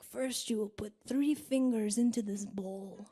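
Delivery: put-on ominous old crone giving orders. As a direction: play the demanding old crone. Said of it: "the crone's like".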